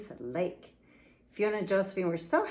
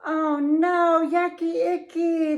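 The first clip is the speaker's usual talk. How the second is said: higher, louder groan of disgust; hammed-up yucky groan; 8 semitones higher, 6 dB louder than usual. A narrator's reading. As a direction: moan it out in mock disgust. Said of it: "the owl groaned and moaned".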